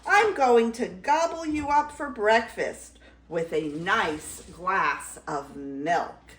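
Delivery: mild roar slowing into relish; roaring troll. Acted. Troll planning to eat Middle Gruff, mild roar. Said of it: "roared the troll".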